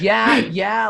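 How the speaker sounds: high, loud mock moans of pleasure; imitating ecstatic high yeahs. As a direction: ham it up again like a blissed-out tripper. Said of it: "And he says".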